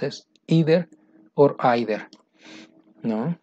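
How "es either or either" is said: either first with a long ee, then with a long eye; either, two accepted sounds; two pronunciations. Shown as a demonstration. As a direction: model either both ways. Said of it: "La pronunciación".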